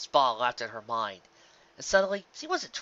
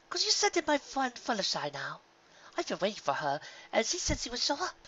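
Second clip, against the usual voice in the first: lounging in a dream spa, languid and grand; Rarity asking the spa pony for a rub, pampered and high; posh Rarity; 11 semitones higher than usual. A narrator's reading. Rarity asks for Fluttershy.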